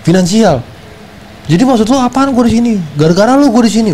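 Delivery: retold angry rant. Blaming the ex for the money trouble, heated. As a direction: pile the blame on her. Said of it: "Gua bilang".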